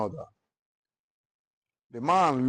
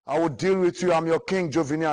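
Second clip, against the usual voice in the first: higher and louder, furious royal protest; indignant shout; 5 semitones higher, 4 dB louder than usual. Acted. Stoned king shouts at the townspeople, louder and higher. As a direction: roar it at the crowd throwing stones.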